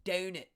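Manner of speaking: "Donut" with a fronted Pittsburgh O; Pittsburgh-accented "Donut", first vowel gliding. Shown as a demonstration. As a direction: say "Donut" as roughly "deh-oo-nut". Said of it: "Pittsburgh also has the O sound".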